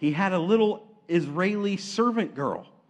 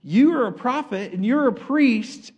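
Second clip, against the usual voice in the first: raised, emphatic rebuke; lightly acted divine scolding; God; 5 semitones higher, 4 dB louder than usual. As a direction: call them to attention, pitched up. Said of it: "God shows up and he says".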